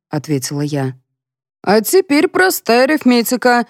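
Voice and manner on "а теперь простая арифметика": grandly announcing the sum; pompous, higher declaration; solemn announcement. A narrator's reading. Colonel lecturing the women, solemn and grand. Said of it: "торжественно заявил Дегтярев".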